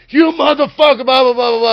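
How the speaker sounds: high, loud retold yelling; retold screaming. Braun Strowman screaming at the speaker in the bar, loud yell. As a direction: bellow it like a giant furious wrestler. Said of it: "like, screaming at me".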